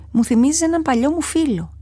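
put-on a big cat remembering an old friend; lion speaking. A narrator's reading. Lion to mouse, fondly recalling a friend, in lion's voice. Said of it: "είπε το λιοντάρι".

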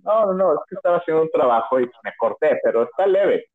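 mock casual, covering the cut; playing it cool. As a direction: act like it's nothing though it hurts.

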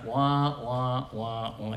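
imitating a sympathetic whimper; a light, mocking wah wah wah; teasing pity noise; mock whiny wah. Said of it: "that kind of a sound in their voice".

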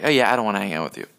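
quick, casual brush-off in a lightly acted voice; offended black guy. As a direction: toss off a fast refusal. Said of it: "white person's racist to a black guy".

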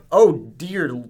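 slow, loud southern drawl; southern accent. Retold or imitated. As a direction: drag it out like a shocked Southerner. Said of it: "You did a southern accent".

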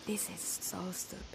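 annoyed, hushed whisper; whispering to oneself. Acted. Woman alone hunting for men's pajamas, irritated whisper. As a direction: mutter under your breath in a whisper.

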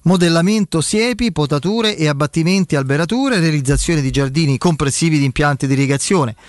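radio ad read, upbeat and clear; infomercial. Acted. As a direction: sell it like a live radio spot. Host reads sponsor ads live.

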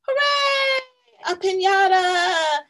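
high, loud excited cheer. Acted. Samson cheering to Clara about piñata, excited. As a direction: squeal it with joy. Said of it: "Samson clapped his hands".

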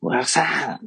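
retold hail with a drawn-out ending; imitated calling out. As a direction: act out staff hailing a customer. Retelling station staff calling after him.

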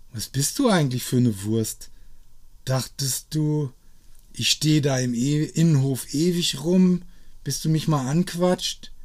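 laut und spöttisch, höher; lauter Vorwurf. Acted. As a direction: ihn frech anfahren. Abigail schimpft ihn an. (laute, spöttische Anmache)

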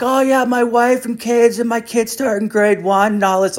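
high, far-off voice for the rambling guy; mimicking the talkative guy. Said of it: "he's like".

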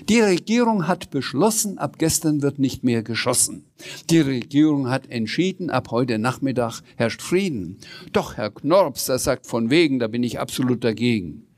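a silly news bulletin; mock news rhyme. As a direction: play a cheeky news announcer. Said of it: "die neuesten Nachrichten vortragen".

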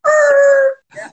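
high loud er cry; high yelp from the whole class; er noise. Retold or imitated. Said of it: "they all go".

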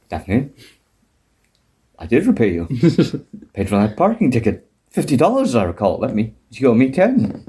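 low, lightly voiced Frasier; Frasier impression. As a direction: drop the voice low and prim for Frasier. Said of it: "I just like this".

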